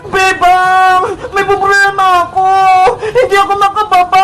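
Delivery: loud calls from up the tree; stuck up a tree, calling down loudly. Acted. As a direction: yell down so she hears you.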